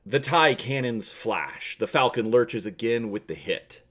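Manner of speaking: dramatic read-aloud narration; hammy stage actor. A narrator's reading. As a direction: read it like a radio serial.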